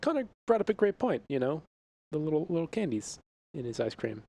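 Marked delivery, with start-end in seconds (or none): 2.1-4.2 librarian voice. Acted. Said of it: "What's with this librarian voice here".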